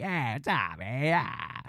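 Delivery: mumbled Delco greeting, trailing off; a light Delco hey what's up; Delco accent. Retold or imitated. Imitating the Delco coworker again, a low Delco mumble. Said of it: "like, Delco".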